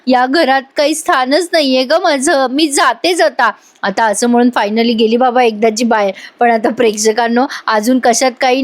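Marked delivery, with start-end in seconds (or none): 0.1-3.5 hammed-up weepy goodbye, slowed down; mock wailing. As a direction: sell a staged breakdown. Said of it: "मोठ्या मोठ्याने रडते पडते".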